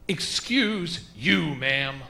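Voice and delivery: confrontational retort. Acted. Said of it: "I stared her back in her face".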